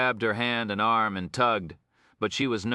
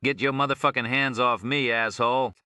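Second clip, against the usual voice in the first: screeching; 5 semitones higher, 3 dB louder than usual. Acted.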